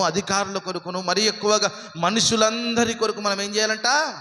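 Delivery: sermon climbing steadily in pitch; fervent preaching. Acted. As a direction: build the list up to a high, ringing question. Preaching at rising force.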